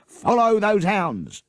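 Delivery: loud rallying call; rally the men to chase; yell. A narrator's reading. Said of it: "yelled Sergeant Patterson".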